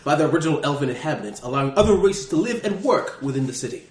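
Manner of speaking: put-on British scholar reading a guidebook; hammed-up British guidebook narration; silly British accent. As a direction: read it out in a mock-British narrator voice. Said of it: "I'm using a British accent".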